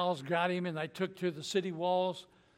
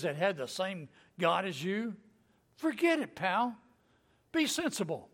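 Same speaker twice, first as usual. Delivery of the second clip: mocking taunt. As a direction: taunt the king with fake friendliness. Enemy letter voiced mockingly.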